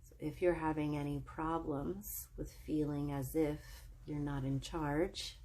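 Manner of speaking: calm, measured meditation voice with long pauses; soothing breathing-exercise lead, lingering between phrases; guided meditation. Real, not acted. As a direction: guide them gently into relaxation, phrase by phrase.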